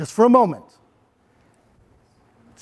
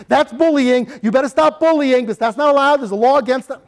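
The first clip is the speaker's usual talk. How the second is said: preachy lecture; 5 semitones higher, 3 dB louder than usual. Shown as a demonstration. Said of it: "I'm not preaching".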